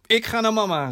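hoger, beslist afscheid; boze dochter. Acted. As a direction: kap het gesprek verontwaardigd af. Boze dochter kondigt vertrek aan. (boos, vastberaden)

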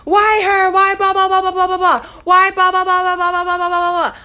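high, mocking whiny voice; mocking gossipers. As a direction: mimic the gossips, whining. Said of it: "and they had, like".

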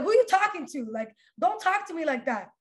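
heated retort that settles slightly; retold angry challenge. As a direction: act out taking offence, not shouting. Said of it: "I was freaking angry".

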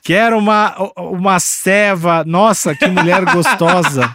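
slow, laughing boorish guy voice; macho man voice. Retold or imitated. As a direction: play a dumb macho dude, chuckling through it. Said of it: "Vestida de homem".

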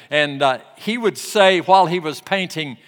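normal talking voice

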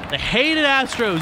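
slow, sneering stress on hated; mock disdain. Ad jeers at rival Astros, slow and sneering.

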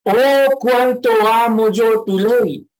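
high, loud, slow cry of devotion, OH stretched out; grand exclamation. Shown as a demonstration. Preacher shows the church how big the exclamation is, high and loud. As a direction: proclaim it like a great confession of love. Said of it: "esta exclamación es muy grande".

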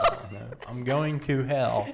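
laughing. Real, not acted. Laughing repeat.

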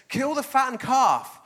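excited father. Acted. Father celebrating son's return.

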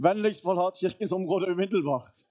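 high, loud security loudspeaker warning; imitated loud surveillance announcement. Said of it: "så kommer det en sånn høy stemme".

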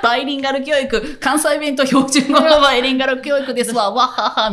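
boastful pitch. Retold or imitated. Staff proudly pitching Kansai bilingual education to Tokyo parents. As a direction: boast it cheerfully like a salesperson. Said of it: "みたいな。".

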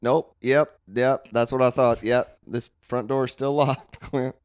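low, weary lightly voiced coworker; a hint of a fed-up clerk; bored coworker voice. Mark character continues.

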